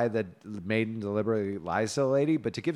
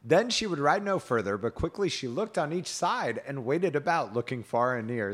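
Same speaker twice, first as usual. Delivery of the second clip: measured storybook reading; story narration; 4 semitones higher than usual. A narrator's reading. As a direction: read the tale aloud with old-fashioned cadence.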